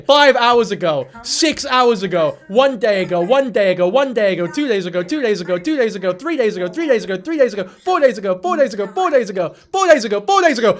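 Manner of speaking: emphatic repeated count, each item falling; exasperated listing. Real, not acted. Reading out her many post dates.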